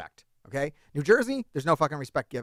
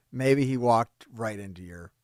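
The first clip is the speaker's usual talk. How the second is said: slow whisper, lower; whispered, teasing the trap; conspiratorial whisper; 7 semitones lower, 4 dB quieter, slower than usual. Acted. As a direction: hush it like a secret plot. Conspiratorial aside to cohost.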